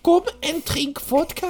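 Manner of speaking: high, slow mock-German woman's voice; German accent. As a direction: drag out English in a high-pitched German accent. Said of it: "avec l'accent allemand".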